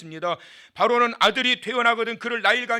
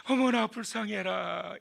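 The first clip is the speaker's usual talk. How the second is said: pitying sigh; 4 dB quieter than usual. Acted. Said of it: "또 뭐라 그래요?".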